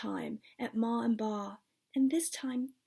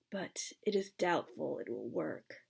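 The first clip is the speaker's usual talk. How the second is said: soft, lower whispered doubt; grim whisper; 6 semitones lower, 7 dB quieter than usual. A narrator's reading. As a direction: hush it, doubtful and grave.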